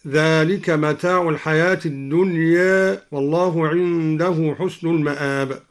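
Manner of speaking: الدنيا ending halfway between "a" and "e"; lightly tilt the final alif of الدنيا to "ad-dunye"; final vowel of الدنيا slightly fronted; taqlil on الدنيا. Shown as a demonstration. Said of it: "وقلل الدنيا من قوله تعالى".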